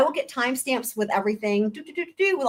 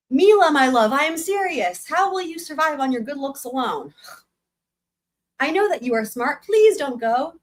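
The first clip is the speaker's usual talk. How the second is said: a mother begging her daughter, higher and earnest; pleading mother; 5 semitones higher than usual. Acted. Mother pleading with her daughter to stay, higher pleading voice. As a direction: beg her not to leave, voice raised high. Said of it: "She started to sob".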